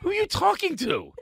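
lightly voiced mean comedian taunting a guest; mock mean comedian. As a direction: jab like a nasty comedian, tongue in cheek. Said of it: "one of those mean comedians that go".

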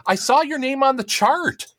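high-pitched impression of a student nurse; imitated old crush. Old high school crush greeting an exposed patient, mimicked high. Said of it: "And she's like".

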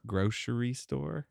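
slow Boston grocery store; drawn-out grocery store, Boston style; Boston accent. Retold or imitated. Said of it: "The grocers?".

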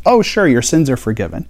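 lightly mock a careless, tossed-off line; offhand, empty remark. Preacher mimics an easy, hollow pardon with a shrug in the voice. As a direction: say it breezily, as if it costs nothing. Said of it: "an off-the-cuff comment that had nothing behind it".

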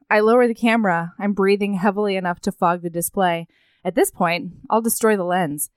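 hushed, measured reading of a novel; story narration. A narrator's reading. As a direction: read the scene aloud, softening as it goes. Reads a book passage aloud.

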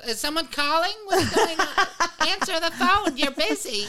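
high, loud flustered elder voice; squeaky high old-timer, laughing; confused old person. Retold or imitated. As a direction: act baffled by the phone. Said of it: "older person's like".

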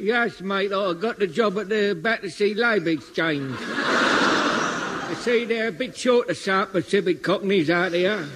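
matey Cockney explaining; casual broad Cockney chat; Cockney valet explains his job; Cockney accent. Acted. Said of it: "You're a South Pacific Cockney?".

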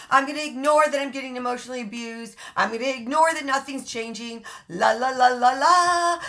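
mock someone plugging their ears and singing; La La Land denial voice. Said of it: "La La Land says".

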